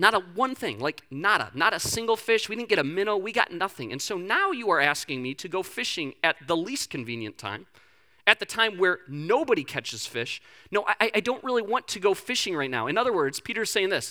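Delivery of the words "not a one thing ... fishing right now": plain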